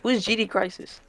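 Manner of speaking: talking while munching chips; crunching chips. Real, not acted. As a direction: talk through a mouthful of chips. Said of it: "stop munching chips".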